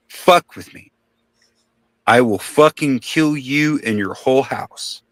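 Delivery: half-hearted imitated scream of a threat; retold screaming threat. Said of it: "And he is screaming".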